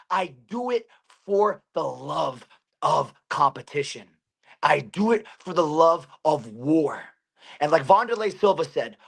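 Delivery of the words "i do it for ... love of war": slow, deliberate delivery; solemn declaration. Real, not acted. Fighter declaring why he fights, slow and emphatic. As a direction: spell out your creed slowly.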